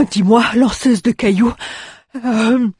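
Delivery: high, loud gruff dwarf. Acted. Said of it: "Le nain hésita".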